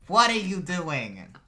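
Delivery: high, loud, drawn-out name calling; scolding mother's yell. Acted. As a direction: stretch out each name as you holler at your son. Mother calls son by full name.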